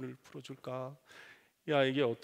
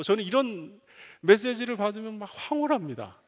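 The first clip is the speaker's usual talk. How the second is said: ordinary talk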